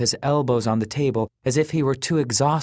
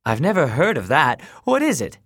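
eager curiosity; 4 semitones higher, 4 dB louder than usual. A narrator's reading. Kenny eager to know.

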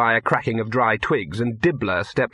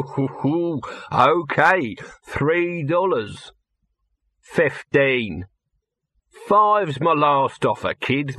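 wheedling showman; 3 semitones higher, slower than usual. Acted. Dibbler haggles over the wages, wheedling. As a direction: haggle with drawn-out salesman's patter.

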